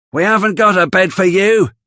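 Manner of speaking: high, cold voice of a mean woman; high-pitched mean stepmother type turning a hungry boy away; Missus Sowerberry, cold. Acted. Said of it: "says Missus Sowerberry".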